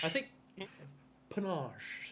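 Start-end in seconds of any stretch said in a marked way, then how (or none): 1.3-2.1 "panache" drawn out slowly as puh-NAHSH; French-sounding pronunciation. Shown as a demonstration. Player arguing the word is French, "panache" as slow puh-NAHSH. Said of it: "sounds more like French".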